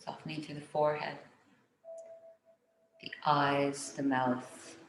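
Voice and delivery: calm meditation voice with long pauses; guided meditation. Real, not acted. Teacher guiding listeners to soften the face, calm meditation.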